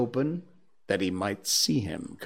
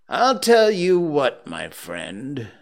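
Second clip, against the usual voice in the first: mock-stern warning; 4 semitones higher, 5 dB louder, slower than usual. Scrooge warns his clerk, pretending to be stern. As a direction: warn him with drawn-out menace.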